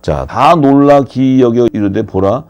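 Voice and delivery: ordinary delivery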